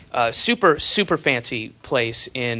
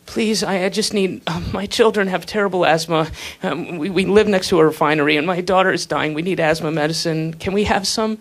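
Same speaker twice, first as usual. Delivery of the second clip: pleading; 3 semitones higher than usual. Retold or imitated. Pleading poor person voiced.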